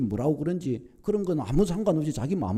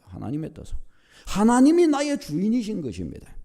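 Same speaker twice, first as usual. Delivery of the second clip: raised, ringing sermon delivery with weighted phrases; emphatic preaching; 6 semitones higher, 3 dB louder than usual. Real, not acted. Preacher explains God-centred life to congregation, emphatic preaching. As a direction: preach it with conviction, lifting key phrases.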